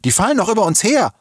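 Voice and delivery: high, loud warning; urgent call. A narrator's reading. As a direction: cry out the warning in alarm. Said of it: "rief die Rotblonde". (laut und alarmiert gerufen)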